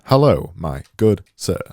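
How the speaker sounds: put-on Siri with English accent. Designer mimicking a voice assistant, mock English accent. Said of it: "Siri, speaking an English accent".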